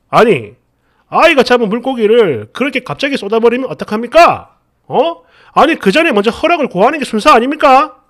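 sharp, indignant protest, rushing at the end; strongly arguing. Retold or imitated. Angry father confronting the woman, indignant and pushy. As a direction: press him hard, demanding an answer. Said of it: "막 이러면서 강하게 따지는데".

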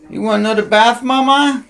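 cooing cat talk; high pet coo. Real, not acted. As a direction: sing it to the cat.

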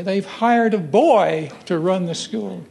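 slow, lightly voiced old man; a hint of a scandalized old alumnus; elderly alumnus voice. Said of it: "I heard an elderly alumnus say".

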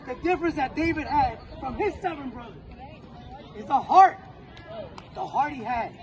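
loud, punching the word heart; emphatic pep speech. Real, not acted. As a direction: drive home the heart. Coach stressing heart.

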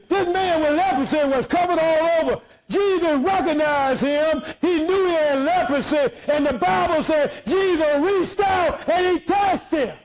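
shouted gospel climax; chanting preacher cadence; preaching at full force. Acted. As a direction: lift them up with the healing. Preaching climax about Jesus' touch.

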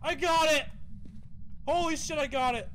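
triumphant disbelief; excited. Real, not acted. Got ghost photo.

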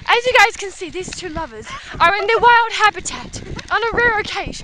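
wildlife narrator voice, lightly done; mock Attenborough commentary; nature documentary. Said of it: "Oh, David Attenborough".

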